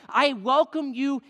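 ringing, fervent invitation; loud welcome. Acted. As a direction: proclaim the welcome with force. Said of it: "he's saying".

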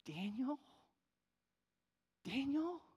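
high, rising disbelieving question; mildly acted tearful astonishment; tearful recognition. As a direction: ask the name as if barely believing it. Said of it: "the woman burst into tears and said".

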